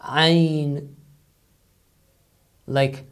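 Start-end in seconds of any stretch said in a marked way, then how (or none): 0.1-1.0 "Ain" voiced from a squeezed throat; Arabic ain. Shown as a demonstration. Teacher shows the ain sound to English speakers. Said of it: "articulated in pharynx with air friction".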